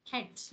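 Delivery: "protect" as pro-TECT; second syllable of "protect" stressed. Shown as a demonstration. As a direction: put the weight on TECT in "protect". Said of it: "nhấn hai mà".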